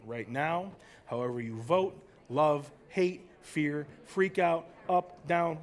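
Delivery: hushed wonder. Acted. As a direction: draw them into the moment. Cosmic musing, slow and low.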